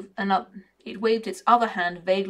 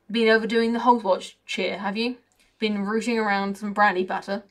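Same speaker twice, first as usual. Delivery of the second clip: a lightly voiced cocky, grumbling raven; mildly put-on raven voice with a working-class grumble; 4 dB louder than usual. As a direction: moan like a sour bird who feels left out.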